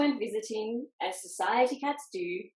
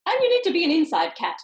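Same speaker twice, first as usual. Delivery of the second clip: Socks voice; 6 semitones higher, 7 dB louder, faster than usual. A narrator's reading. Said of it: "said Socks".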